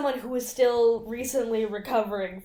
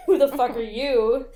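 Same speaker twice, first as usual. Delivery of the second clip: louder mock-indignant retort; confrontational retort; 2 semitones higher, 5 dB louder than usual. Roommate answering the intruder, louder indignant retort. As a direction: throw the challenge back louder. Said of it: "And she's like".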